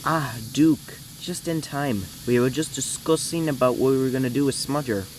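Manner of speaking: lightly put-on character accent; a hint of an engine character's accent; Jerry accent. Shown as a demonstration. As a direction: try out a mild character accent. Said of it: "I'm gonna try an accent for him".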